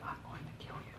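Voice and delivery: a hushed, breathy whispered threat. Retold or imitated. Drill instructor whispering to a recruit, a menacing whisper. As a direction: whisper it close, letting the quiet menace. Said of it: "he whispered it".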